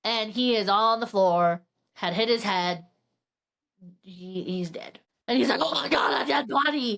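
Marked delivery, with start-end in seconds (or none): 5.6-7.0 acted gasp of panic at a discovery; mock freak-out. Man finding his neighbor dead, mock freaking out. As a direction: play at freaking out, without much volume. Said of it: "Yeah, freaking out".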